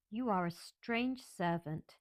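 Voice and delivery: put-on slow, haughty little girl speaking down; slow, lofty child addressing a maid. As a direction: talk down to the servant. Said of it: "rather haughtily".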